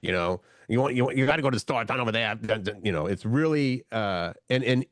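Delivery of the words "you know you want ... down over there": restrained mock Southern accent. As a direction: lightly put on a low Southern accent. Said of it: "it's a southern accent".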